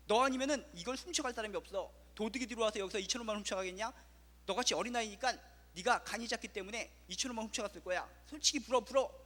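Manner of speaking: 아이를 다그치며 점점 크게 소리치는 엄마 흉내; 솔직히 불라고 윽박지르듯. Retold or imitated. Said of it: "소리를 갖다 버럭버럭 지릅니다". (엄마가 아이에게 돈을 내놓으라 다그치며, 버럭 고함)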